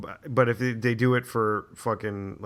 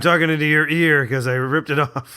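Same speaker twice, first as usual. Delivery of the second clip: impression voice; 3 semitones higher, 7 dB louder than usual. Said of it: "He does these impressions".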